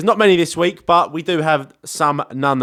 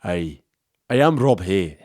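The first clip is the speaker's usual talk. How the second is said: low mock Scottish accent; Rob Hay; 7 semitones lower, slower than usual. Host introducing himself as the listener, mock Scottish accent. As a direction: put on a rough attempt at Scottish. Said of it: "Is that a, a Scottish accent?".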